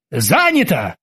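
shouted. Acted. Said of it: "хором крикнули Оззи с Кики".

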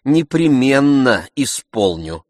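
biting, slow mock promise; caustic. A narrator's reading. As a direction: drag it out sarcastically. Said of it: "едко отвечал Обломов".

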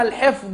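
الحفظ ending in a heavy emphatic "d"; ḍād in الحفظ. Shown as a demonstration. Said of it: "بالضاد".

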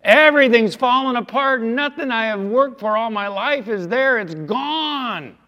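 high, loud anguished cry of loss; voicing Habakkuk's despair. Preacher voicing Habakkuk crying that everything is gone. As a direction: cry out as the ruined prophet. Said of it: "That's what he's saying".

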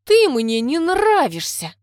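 loud, high, drawn-out hostility; venomous, stretched declaration; hissed dislike. A narrator's reading. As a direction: spit it out slowly with venom. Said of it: "прошипела".

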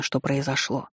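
plain reading voice

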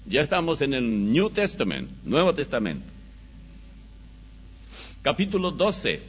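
ordinary talk

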